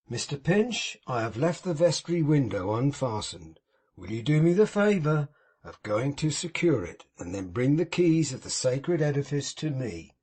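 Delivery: a hint of mournful piety put on for show; unctuous Pecksniff. Pecksniff grieving over Tom to old Martin, sanctimonious.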